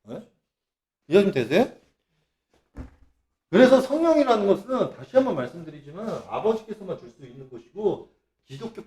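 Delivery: usual speaking voice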